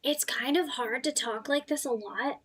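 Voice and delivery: lightly put-on, throat-straining voice; a hint of a strained character; Beck. Shown as a demonstration. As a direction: demonstrate a character voice, slightly held back. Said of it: "it kinda hurts my throat".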